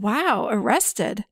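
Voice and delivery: just mirror it back, unexcited; monotone echo. Retold or imitated. Mom flatly echoing son's news. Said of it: "I was very monotone".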